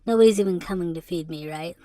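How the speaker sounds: breathy laugh into a whispered line; half-laugh it under your breath; rueful whispered joke about being alone. Real, not acted. Laughs at his lonely image.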